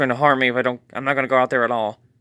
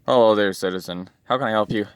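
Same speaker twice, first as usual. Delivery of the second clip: lower, steady heroic greeting; 4 semitones lower than usual. Acted. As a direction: play the calm rescuing hero. Superman arrives as hero.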